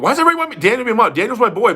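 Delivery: high, loud disbelief; why me, in a squeaky protest; incredulous. Real, not acted. Reacting to chat pushing Daniel.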